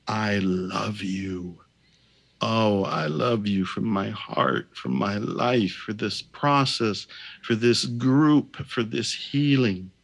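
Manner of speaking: slow, sincere prayer; heartfelt, sincere. Shown as a demonstration. Healer speaking the prayer for the group, slow and heartfelt. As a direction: say it from the heart, unhurried. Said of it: "say it with feeling".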